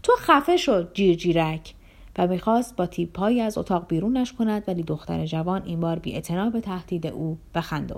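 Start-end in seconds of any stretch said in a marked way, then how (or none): 0.0-1.7 mock yell, only a bit louder. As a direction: snap at the girl, not fully loud. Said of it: "لیبدف سرش داد زد".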